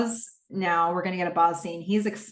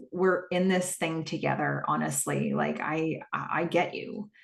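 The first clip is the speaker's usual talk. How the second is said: soft, low, sincere reassurance; tender reassurance; 3 semitones lower, 5 dB quieter than usual. Retold or imitated. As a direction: gently voice a father's understanding. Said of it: "approaching her with real tenderness".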